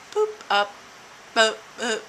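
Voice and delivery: short, punchy "boop" noises; little bouncing boop sound effects; imitated boops. Shown as a demonstration. Showing how the pounds typically go, popping boop noises. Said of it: "like that".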